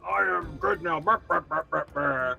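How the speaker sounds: lightly voiced eldritch pumpkin creature, with brr noises; a hint of a monster king, sputtering; benevolent pumpkin king. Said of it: "Pumpkin Eldritch, now not more benevolent king".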